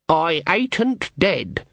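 slow, drawn-out, eerie; slow eerie words. A narrator's reading. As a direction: let each word hang. Granny's written words, slow.

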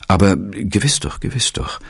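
flustered director, voice lifted high; stammering. A narrator's reading. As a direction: stammer out eager agreement. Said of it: "stammelte der Direktor".

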